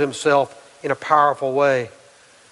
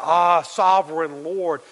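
slow reverent cry; 3 semitones higher, slower than usual. Acted. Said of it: "It says he cried out".

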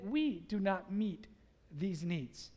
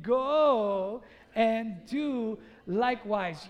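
loud, very drawn-out rallying cry; like you mean it; 7 dB louder, much slower than usual. Shown as a demonstration. Preacher urging everyone to say it again, emphatic and loud. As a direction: stretch each word with full conviction. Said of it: "say it like you mean it".

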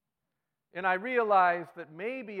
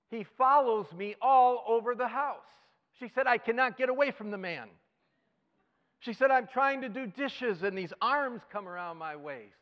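high, louder delighted wife; excited wife; 8 semitones higher, 7 dB louder than usual. Retold or imitated. Pastor quoting a delighted wife, high gushing voice. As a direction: gush it like a thrilled wife.

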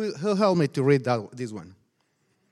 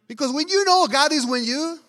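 louder, higher preaching call; preaching climax; 9 semitones higher, 6 dB louder than usual. Real, not acted. Pastor rousing the congregation, loud and high. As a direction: lift it to a rousing preaching cry.

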